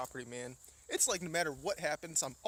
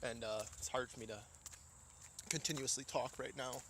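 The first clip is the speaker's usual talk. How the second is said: breathless, short of air; out of breath, talking between breaths; 3 semitones lower, 4 dB quieter than usual. Real, not acted. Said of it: "Sorry, I'm getting out of breath".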